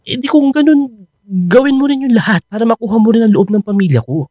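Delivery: urgent plea. Acted. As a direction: rush to press her to win them over. Pressing girlfriend to try harder.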